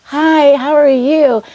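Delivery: high, bright mock hello; imitating a cheery greeting. Retelling how Julie's family greeted her, mock cheery hello. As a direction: chirp the hello like the happy family.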